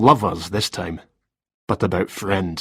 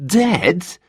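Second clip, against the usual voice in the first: gasped; 9 semitones higher than usual. Acted. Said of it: "he gasped".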